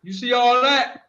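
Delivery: talking while chewing; words round a mouthful of food; mouth full. Real, not acted. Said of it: "You see how I'm chewing".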